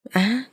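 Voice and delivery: mild narrated cry of pain; pained yelp. A narrator's reading. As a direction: yelp as if suddenly hurt. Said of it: "Cường kêu lên".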